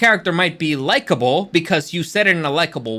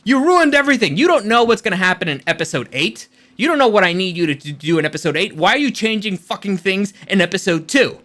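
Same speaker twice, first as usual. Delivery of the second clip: shouted high, a ranting writer tearing his hair out; hammed-up outraged screenwriter rant; mock furious writer; 3 semitones higher than usual. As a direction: yell at the idiots who wrecked your story. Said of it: "ripping his hair out like".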